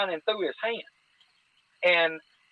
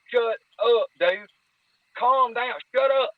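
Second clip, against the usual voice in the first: hissed shut up; 4 semitones higher than usual. Retold or imitated. Both hush panicking buddy.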